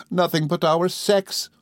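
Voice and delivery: high, slow, tearful plea; understated burst of tears; Emily, tearful. A narrator's reading. Emily answering Rosa, tearful. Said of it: "with a burst of tears".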